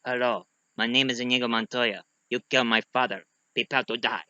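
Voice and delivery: put-on quiet, low accented avenger; Inigo Montoya. Wounded swordsman still fighting, quiet accented vow. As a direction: recite the vow softly, held back. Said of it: "still fighting, going like".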